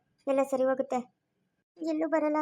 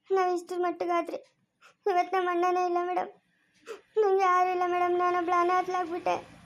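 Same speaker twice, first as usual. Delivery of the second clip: higher, teary voice near to crying; tearful; 4 semitones higher than usual. Acted. Sister tells the officer she has no one left, tearfully. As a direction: plead through tears that she is alone now.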